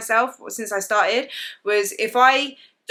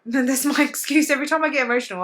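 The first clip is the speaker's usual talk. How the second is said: laughing at her own excuse; 5 semitones higher than usual. Real, not acted. Joking about being a Cancer.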